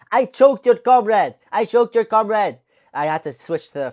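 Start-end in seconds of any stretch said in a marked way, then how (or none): 0.1-1.3 loud, slow mock Russian accent; higher-pitched, drawn-out imitation Russian accent. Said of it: "from the fucking Russian accent to the French accent". 1.5-2.6 loud, slow mock French accent; higher-pitched, drawn-out imitation French accent. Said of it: "from the fucking Russian accent to the French accent".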